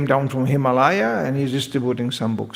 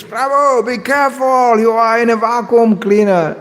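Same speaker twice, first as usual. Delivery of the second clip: higher, louder half-laughing warning; retold warning shout; 8 semitones higher, 5 dB louder than usual. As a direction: call out a teasing alarm to a fellow monk. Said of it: "everybody screams".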